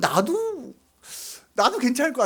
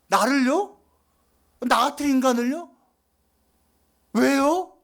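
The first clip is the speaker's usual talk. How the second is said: a believer stunned by God's grace, building; amazed believer, building; 3 semitones higher than usual. Pretend. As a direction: grow more and more astonished with each question. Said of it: "이렇게 하게 되어 있어요".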